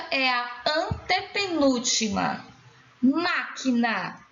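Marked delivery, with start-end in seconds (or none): 3.0-4.2 "Máquina" slow, first syllable drawn out. Shown as a demonstration. Teacher showing the stressed syllable, "Máquina" slowly sounded out. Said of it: "Sílaba tônica".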